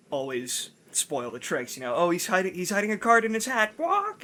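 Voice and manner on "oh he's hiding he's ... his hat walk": lightly squawked parrot tattling on the magician, rising high; a hint of a squawky tattletale bird. Parrot in the story spoiling the magic trick, high squawky. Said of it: "he had a pet parrot".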